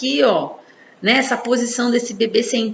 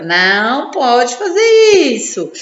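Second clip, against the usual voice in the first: slow, louder firm telling-off; scolding; 5 dB louder, slower than usual. Shown as a demonstration. Mother scolding her baby slowly and louder. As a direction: warn the baby slowly and firmly. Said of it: "quando você dá uma bronca".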